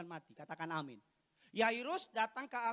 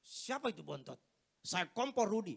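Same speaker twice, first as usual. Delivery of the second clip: disguised police officer; 3 semitones lower, 3 dB louder than usual. Acted. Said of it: "Saya suka ubah-ubah suara saya".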